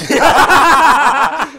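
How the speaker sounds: very loud, high cackle; explosive laugh. Real, not acted. Co-host suddenly getting the dirty joke, explosive high laughter. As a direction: burst out laughing at full volume.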